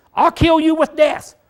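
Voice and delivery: "I'll kill you with death" high and loud; Hebrew-style emphasis. Shown as a demonstration. Preacher showing how Hebrews doubled words, emphatic. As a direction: raise pitch and volume, driving through "kill you with death". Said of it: "It's emphasis".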